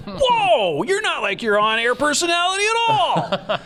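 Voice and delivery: high, laughing surprised exclaim; shocked whoa. Retold or imitated. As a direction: gasp it out in disbelief, half laughing. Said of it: "I was like".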